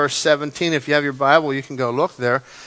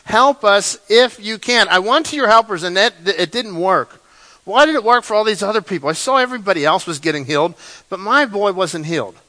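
begging father; 3 semitones higher, 3 dB louder than usual. Acted. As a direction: beg the master for your son's healing. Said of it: "he's just begging".

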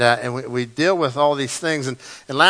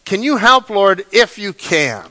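high, louder start, then a slow, doubtful end; doubtful prayer; 3 semitones higher, 5 dB louder than usual. Acted. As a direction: plead with God, half unsure. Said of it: "come to the Lord and said".

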